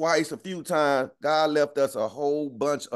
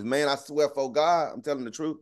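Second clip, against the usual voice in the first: mock street swear. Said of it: "We say it just like that".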